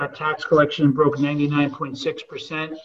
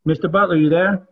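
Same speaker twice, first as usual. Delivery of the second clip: calling out; 9 dB louder than usual. Real, not acted. Calling out to absent member.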